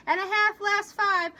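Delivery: rumbling answer. Acted. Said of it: "Kenzie rumbled answer".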